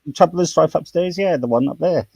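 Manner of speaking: chatty Cockney slang tale, lightly done; a touch of Cockney storytelling; Cockney accent. Shown as a demonstration. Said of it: "I'll speak a bit of Cockney".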